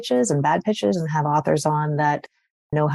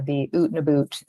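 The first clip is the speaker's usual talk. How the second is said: Canadian accent. Shown as a demonstration. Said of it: "you'll hear my Canadian accent".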